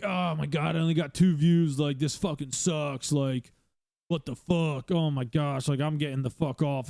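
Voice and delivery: mock frustrated streamer moaning about views; lightly voiced whiny beginner, dragging out the complaint; half-hearted impression of a sulking streamer; whiny new streamer.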